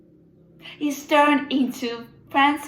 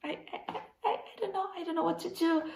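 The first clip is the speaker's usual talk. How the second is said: despairing; 4 semitones higher, 13 dB quieter, much faster than usual. Acted. Distraught writer, art ruined.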